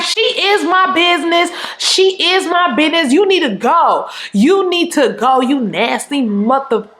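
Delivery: high, emphatic retort that drops toward the end; talking shit. Retold or imitated. Co-worker defending her friend against the boyfriend, trash-talking retort. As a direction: act out telling someone off. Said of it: "I was talking so much shit".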